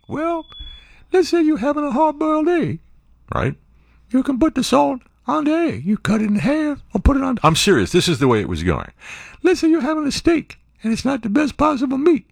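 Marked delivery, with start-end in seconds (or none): 0.1-7.4 very high Bubba-like lady voice; like the Forrest Gump shrimp guy, pitched way up; high mock lady introducing her topic; imitated radio guest. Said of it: "That's how she sounded". 9.4-12.2 very high Bubba-like lady voice; like the Forrest Gump shrimp guy, pitched way up; high mock lady introducing her topic; imitated radio guest. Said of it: "That's how she sounded".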